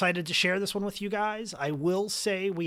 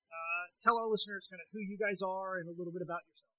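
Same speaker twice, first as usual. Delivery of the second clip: tinny voice on a bad phone line; tin can phone; faster than usual. Real, not acted. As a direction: sound like a poor cell connection. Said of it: "I'm gonna sound a little bit like I'm talking through a tin can or on a bad cell phone reception".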